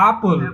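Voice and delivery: আপেল said as "aa-pol"; rounded "o" in the ending of আপেল; pronunciation demo. Shown as a demonstration. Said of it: "এই উচ্চারণটা হচ্ছে".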